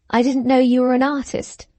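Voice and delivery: slight ironic weight on "artist"; ironic stress on artist. A narrator's reading. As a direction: lean lightly and dryly on "artist". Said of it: "with an ironical emphasis on the last word".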